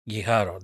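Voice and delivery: "Guijarro" as ghee-HAR-o, hard g; Spanish pronunciation. Shown as a demonstration. Commentator showing viewers how the Spanish say it, Spanish pronunciation. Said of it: "That's how the Spanish say it".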